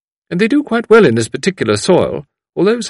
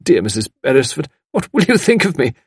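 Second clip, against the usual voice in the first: higher, flustered apologetic outpouring; dismayed apology; 5 semitones higher, 4 dB louder than usual. A narrator's reading. Visitor apologising for the broken vase, dismayed. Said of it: "an exclamation of dismay".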